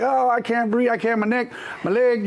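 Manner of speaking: high, hammed-up whining about the neck and leg; faking injury. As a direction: play it up, pretend you're badly hurt. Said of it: "I went handicap".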